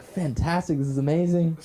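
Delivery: mildly giddy; elated reaction. Retold or imitated. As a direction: gush over it as if retelling good luck. Retelling elated reaction to date.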